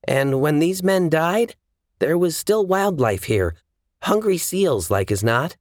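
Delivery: high, assured investigator voice; woman examining bodies. Acted.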